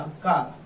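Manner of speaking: कार with a long open "aa"; open AA sound. Shown as a demonstration. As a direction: say कार with A read as आ. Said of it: "तो पढ़ेंगे इसे आ". (कार में आ की खुली आवाज़)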